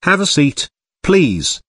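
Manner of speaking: British English, each phrase falling at the end; British accent. Shown as a demonstration. The speaker models offering a guest a seat, British accent.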